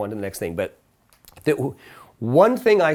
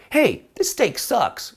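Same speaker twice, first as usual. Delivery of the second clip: slow, high, rude complaint; rude diner; 10 semitones higher, much slower than usual. Retold or imitated. Rude diner griping to the waiter, slow and high. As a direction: drag out a mocking rude complaint. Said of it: "If you go".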